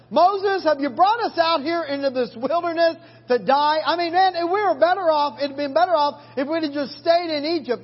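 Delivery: mock whining complaint; complaining Israelites. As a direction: moan it like a grumbling crowd.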